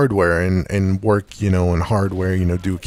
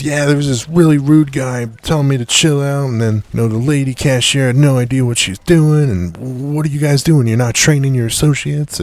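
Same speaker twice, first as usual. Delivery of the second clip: higher-pitched mock customer complaint; retold angry complaint; 4 semitones higher, 3 dB louder than usual. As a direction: mildly imitate an indignant customer griping to the manager. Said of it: "still super pissed off".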